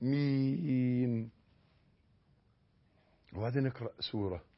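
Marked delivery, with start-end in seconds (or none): 0.0-1.3 آمين with a two-beat first a; آمين, first a held just two counts; correct amen. Shown as a demonstration. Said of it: "آ حركتين".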